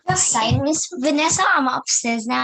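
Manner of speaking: loud call from afar; yelling across the room. Real, not acted. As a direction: call out loudly to someone upstairs. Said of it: "That was my brother".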